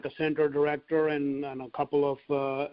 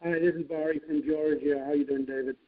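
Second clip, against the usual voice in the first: muffled. Real, not acted. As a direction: voice muffled as if covered. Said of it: "You're kinda muffled".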